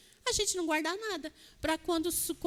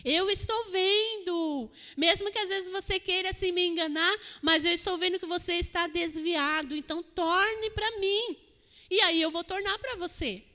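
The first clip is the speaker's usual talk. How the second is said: voz de Deus, firme. Retold or imitated. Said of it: "Foi assim que o Senhor falou".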